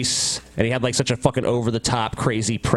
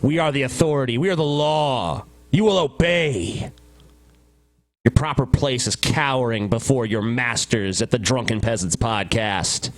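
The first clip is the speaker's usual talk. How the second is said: villain proclamation. Acted. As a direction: proclaim it like a campy tyrant.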